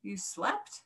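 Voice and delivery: halting gasp, leaping high on the last words; breathless, high-rising shock; astonished gasp. A narrator's reading. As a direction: gasp it in disbelief, broken in two. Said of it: "gasped another".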